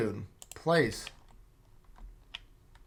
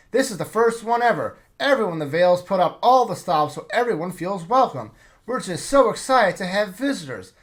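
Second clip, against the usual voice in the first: excited; 2 semitones higher than usual. Acted. Young man greeting visitors to the feast, excited gush. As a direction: bubble over with welcome.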